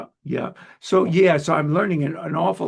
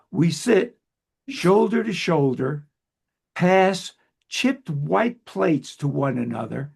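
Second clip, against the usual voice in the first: slow, measured poetry reading; deliberate, line-by-line verse delivery; poem recitation; slower than usual. Acted. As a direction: read the poem aloud with pauses between phrases. Reads guest's poem aloud.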